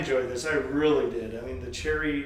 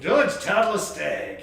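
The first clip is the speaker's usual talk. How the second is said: slow drawn-out name; 5 semitones higher, 5 dB louder, much slower than usual. Pretend. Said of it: "slow, loud drawn-out name".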